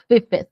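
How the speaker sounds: "Fifth." ending on the tongue between the teeth; "Fifth." with the tongue caught between the teeth. Shown as a demonstration. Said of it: "termina a palavra com a língua entre os dentes".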